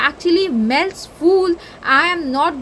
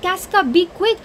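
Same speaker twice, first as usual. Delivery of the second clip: passionate Cassius. Acted. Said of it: "he's saying it".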